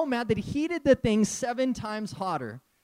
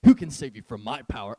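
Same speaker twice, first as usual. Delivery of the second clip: nervous king; 7 semitones lower than usual. Retold or imitated. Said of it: "Now he's like".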